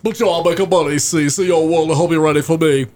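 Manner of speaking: a rapper's character voice. Shown as a demonstration. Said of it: "I do a rapper".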